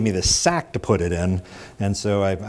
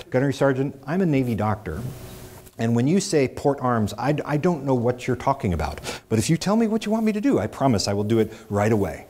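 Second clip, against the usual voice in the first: mildly pleading, raised pitch without shouting; earnest appeal; 4 semitones higher than usual. Retold or imitated. Navy doctor appeals to sergeant's humanity, mild earnest plea. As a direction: reason with an angry superior. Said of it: "I tried to appeal to his humanity".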